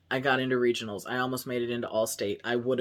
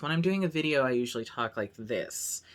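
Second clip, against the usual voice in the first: slightly higher video voice. Shown as a demonstration. Vlogger showing the voice used in videos, slightly higher. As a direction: start up a bit, on-camera register. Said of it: "It's just slightly higher".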